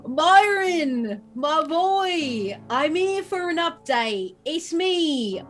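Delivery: high-pitched, over-the-top delighted NPC greeting; gushing barman. Acted. The scarred man greets barman Byron, gushing and high-pitched. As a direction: gush at him like a long-lost friend. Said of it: "he goes".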